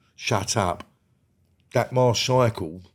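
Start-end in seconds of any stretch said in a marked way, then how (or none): none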